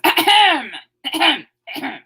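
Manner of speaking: mock polite ahem; throat-clearing. Someone in the crowd, mock throat-clearing. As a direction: clear your throat for attention. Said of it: "someone over here says".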